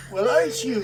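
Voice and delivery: light Scottish lilt; sassy Scottish lass; Scottish accent. Acted. GM's tabaxi shopkeeper greets player, lightly Scottish. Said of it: "that's fucking Scottish".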